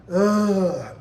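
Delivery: drawn-out exasperated "ugh"; long, loud groan of exasperation. Retold or imitated. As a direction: groan in mild disgust. Reacting to heartbroken acting.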